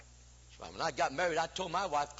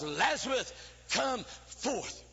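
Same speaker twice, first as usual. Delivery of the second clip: commanding call, a touch louder; 3 semitones higher, much slower than usual. Acted. Preacher voicing Jesus at the tomb, loud command. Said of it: "And the loud voice".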